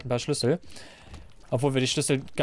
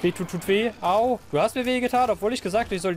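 mock whining; 6 semitones higher than usual. Hit despite pleading.

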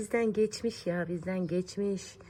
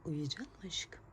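soft whispered question, rising; 10 dB quieter than usual. Real, not acted. Mother whispering as the baby drifts off. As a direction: lull her gently.

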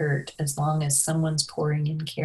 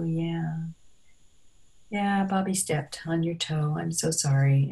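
reassuring presence. Shown as a demonstration. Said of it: "offer your presence and make the situation safe".

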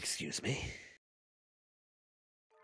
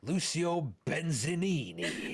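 laughing; 6 semitones higher, slower than usual. Real, not acted. Laughing at drug name.

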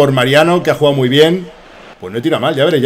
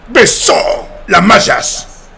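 dramatic commentator; 6 semitones higher, 4 dB louder, much slower than usual. Pretend. Mock commentary after goal.

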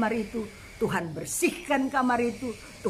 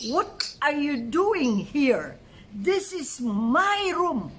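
stern intruder's question; 3 semitones higher, much slower than usual. Retold or imitated. The woman at the bed confronting the preacher, slow and stern. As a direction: drag each word out like an unwelcome host. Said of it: "Dia bilang".

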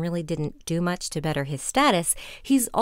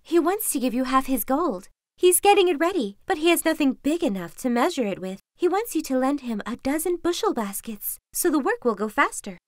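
fox voice; 4 semitones higher than usual. Acted. Fox explains to king.

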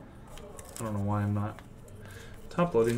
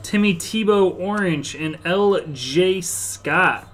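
slow, loud, raised callout; card-pull announcer; 5 semitones higher, 5 dB louder than usual. Real, not acted. Card breaker calling out players from a pack, announcer callout. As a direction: call out the pulls big, stretching the names.

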